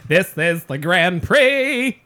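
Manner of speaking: drawn-out put-on Russian accent; mock Russian accent. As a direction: proclaim it as a hammed-up Russian villain. Playing the Russian villain.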